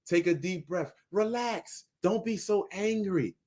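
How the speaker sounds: softly mocking "relax, don't be angry"; mock soothing. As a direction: mimic a patronizing voice telling him to calm down. Mocking the calm-down preachers.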